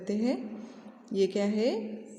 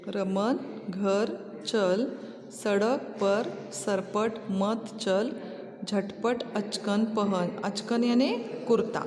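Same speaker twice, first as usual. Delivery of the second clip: very slow, word by word to pupils; teacher dictating sentences very slowly; slow dictation reading; slower than usual. Acted. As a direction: read each sentence for children to repeat. Reads the sentences again slowly.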